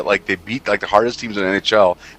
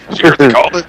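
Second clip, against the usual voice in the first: excited friend; 6 semitones higher, 8 dB louder, faster than usual. Retold or imitated. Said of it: "He's like".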